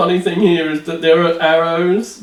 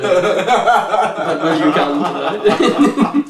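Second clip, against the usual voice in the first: laughing innuendo; 3 semitones higher, much slower than usual. Acted. Reading comic dialogue with innuendo.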